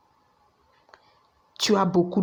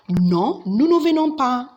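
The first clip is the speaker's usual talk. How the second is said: emphatic no; 5 semitones higher than usual. Shown as a demonstration. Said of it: "you could just say".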